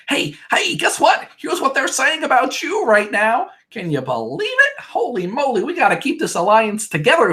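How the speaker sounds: high mock-chipper rally cry to the fellas; mock cheerful ally. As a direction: play the overeager team player rallying everyone. Annalise voiced, mock alliance pep.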